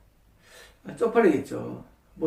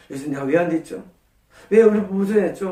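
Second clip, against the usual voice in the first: earnest question. Shown as a demonstration. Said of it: "하고 진지하게 물어보는 장면입니다".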